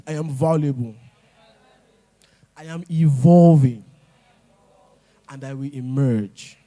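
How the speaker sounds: loud, emphatic declaration building to a shout; say it like you mean it. Shown as a demonstration. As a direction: proclaim it with full conviction. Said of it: "Say it like you mean it".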